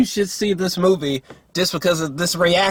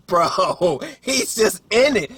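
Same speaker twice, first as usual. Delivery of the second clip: laughing, pitched way up; 7 semitones higher, slower than usual. Shown as a demonstration. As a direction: repeat it again through a laugh. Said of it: "like, he's just in it".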